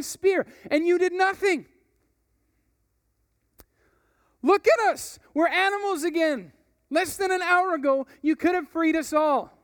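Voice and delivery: loud, high, furious rebuke; roaring frustrations. Acted. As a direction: roar it at your leader in frustration. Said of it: "began roaring his frustrations".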